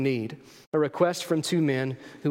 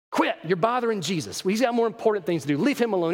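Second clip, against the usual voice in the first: scolding crowd; 4 semitones higher, faster than usual. Acted. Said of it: "did you notice the crowd's response?".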